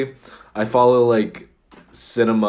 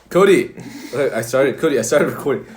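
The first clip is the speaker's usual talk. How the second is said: calling out; 4 semitones higher, 4 dB louder than usual. Real, not acted. Calling partner to start.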